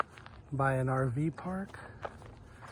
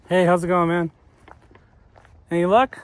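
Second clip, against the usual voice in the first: calling out; 5 semitones higher, 8 dB louder than usual. Real, not acted. Calling to another angler.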